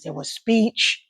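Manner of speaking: slight stutter, restarting words; real post-stroke stutter. Real, not acted. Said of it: "as you hear me stuttering a little bit now".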